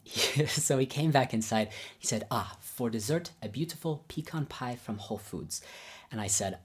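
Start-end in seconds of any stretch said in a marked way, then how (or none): 2.3-5.6 imitated Babayan accent, dropping softer. Teacher presenting dessert to guests, in imitated Babayan accent. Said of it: "I'll do my best Babayan accent".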